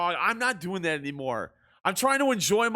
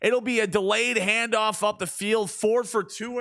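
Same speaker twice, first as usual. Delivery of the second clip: sports commentator cadence; play-by-play call; 2 semitones higher than usual. Acted. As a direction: call the game like a broadcaster. Video game play-by-play.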